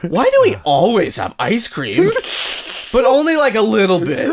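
suppressing giggles; giggling mischievously; giggly. Real, not acted. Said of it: "Jimmy, why are you giggling?".

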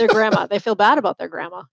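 slipping into a Boston accent; grandma with a dropped r, Boston style. Real, not acted. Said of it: "You heard my Boston accent there for half a second".

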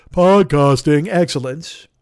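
podcasting excellence, drawn out like a trailer announcer; grand announcer read. Shown as a demonstration. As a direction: savor each word like a movie trailer. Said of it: "of podcasting excellence".

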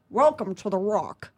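slow, lightly voiced Sean Connery; a hint of Connery savoring the line; Sean Connery impression. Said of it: "I did Sean Connery".

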